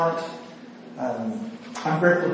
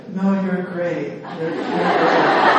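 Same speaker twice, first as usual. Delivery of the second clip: numb stare reassurance; much slower than usual. Retold or imitated. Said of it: "she'll have a numb stare".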